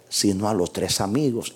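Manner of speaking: usual speaking voice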